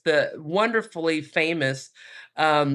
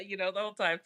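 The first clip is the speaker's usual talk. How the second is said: usual speaking voice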